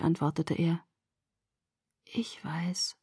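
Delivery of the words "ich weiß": breathy whisper, heavy with tiredness; breathed whisper. A narrator's reading. Exhausted girl answering his love, a breathed whisper. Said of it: "hauchte ich".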